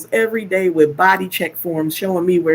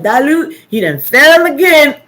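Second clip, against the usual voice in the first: put-on much higher, louder giggly kid voice; laughing toddler; 8 semitones higher, 7 dB louder than usual. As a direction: imitate the baby laughing at his brother. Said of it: "even the baby be laughing like".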